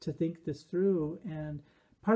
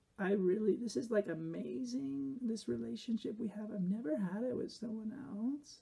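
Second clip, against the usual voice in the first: higher pitched vocal fry with ends creaked and tilted upward; 6 semitones higher, 6 dB quieter than usual. Describing a way of talking, speaker imitates it with Kim Kardashian vocal fry uptalk. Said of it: "vocal fry up talk".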